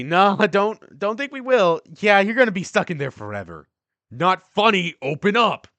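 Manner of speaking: loud, high, laughing taunt; mocking boys. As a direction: jeer at him through the door. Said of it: "Then all the boys say".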